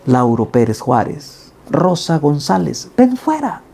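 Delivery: names called out, rising to a high ringing ven fuera; calling the dead to rise; voice of command. Acted. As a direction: summon the dead from the grave. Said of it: "esa misma voz de mando".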